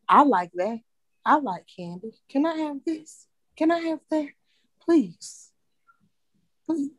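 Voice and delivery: put-on high begging kid voice; mimicking child. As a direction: whine like a little kid asking for candy.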